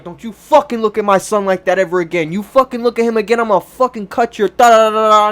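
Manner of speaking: mild mock rant at the staring man; half-hearted angry mother telling him off; imitating angry mom. Mom snapping at the man staring at her son, mild mock fury. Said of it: "and my mom snapped".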